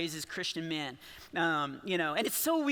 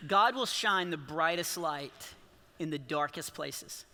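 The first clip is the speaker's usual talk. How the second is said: sincere message; 5 semitones lower, slower than usual. Real, not acted. Pastor gives his message to the crowd, slow and sincere. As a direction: lower the voice and mean it.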